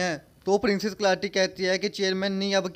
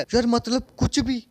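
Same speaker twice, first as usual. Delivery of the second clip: exasperated disbelief; 4 semitones higher than usual. Real, not acted. Narrator reacting to the flower eating the chick, exasperated and disbelieving. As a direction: throw up your hands at the absurdity.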